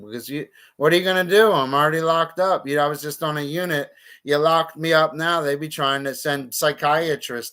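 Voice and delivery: fired up and indignant, pressing the point fast; a rising, fast heated rant; heated outburst. Real, not acted. Heated rant about being locked up.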